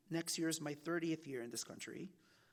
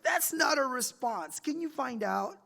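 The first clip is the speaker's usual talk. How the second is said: higher, louder, slow insistent editor; mock copy editor; 7 semitones higher, 7 dB louder, slower than usual. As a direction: press him like a stern editor. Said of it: "She was like".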